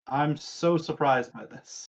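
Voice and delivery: dry, mock surprise; deadpan fake amazement; sarcastic. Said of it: "that was absolutely sarcastic".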